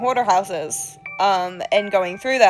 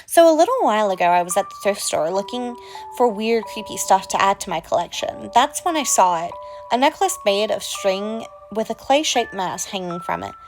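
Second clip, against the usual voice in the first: creepy storyteller voice. Acted. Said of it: "without this accent".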